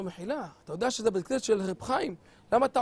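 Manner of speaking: soft, quick confronting aside; hushed reproach. Acted. Congregant quietly rebuking the young cantor, hushed. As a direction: lean in and scold under your breath.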